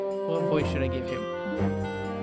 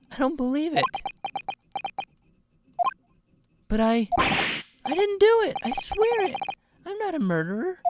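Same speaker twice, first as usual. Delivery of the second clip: put-on panicked young defendant; 2 semitones higher than usual. Accused hero protests innocence.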